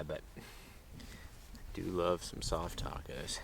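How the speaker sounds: talking through a mouthful of taco; mouth full. Real, not acted. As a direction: speak with a mouth full of food. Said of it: "Sorry to talk with my mouth full".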